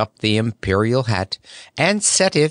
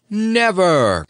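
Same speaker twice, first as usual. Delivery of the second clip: much higher, loud declaration; cried out; 9 semitones higher, 4 dB louder than usual. A narrator's reading. Scarecrow promising Toko, loud and grand. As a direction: proclaim it grandly. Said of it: "cried the Scarecrow with an impressive wave".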